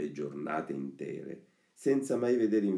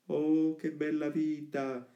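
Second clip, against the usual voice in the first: put-on high, slow, blissful puppet-boy voice; Pinocchio; 9 semitones higher, slower than usual. Pinocchio exclaiming to Lucignolo about their carefree life, delighted. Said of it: "diceva Pinocchio".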